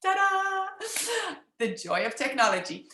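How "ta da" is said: high showy ta-da; bright flourish of a reveal. Acted. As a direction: announce it like a magic trick. Grand reveal opening.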